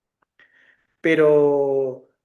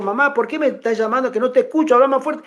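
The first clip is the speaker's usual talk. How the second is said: higher-pitched imitated daughter on the phone; retold complaint to mother; 6 semitones higher, faster than usual. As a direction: imitate a daughter asking mamá to speak up. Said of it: "que a veces le digo". (hija quejándose al teléfono, imitada)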